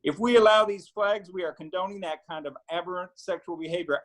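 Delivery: lightly put-on Southern accent, pitched a bit up; quoting a speech in a mild Southern twang; mock Southern accent. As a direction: imitate a religious-right speechmaker with a Southern accent. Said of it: "put a Southern accent on that".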